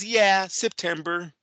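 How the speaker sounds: slow, lightly mocked Tank reply; Tank's odd answer. Host telling co-host to watch Tank's interview, slow mock. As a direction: stretch yeah September lazily like Tank. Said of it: "watch the interview. He goes".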